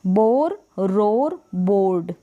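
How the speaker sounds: "बोर, रोर, बोर्ड" each with an open aw; long aw sound. Shown as a demonstration. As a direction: model "बोर, रोर, बोर्ड" word by word, vowel held. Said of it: "थोड़ा अ का sound दे".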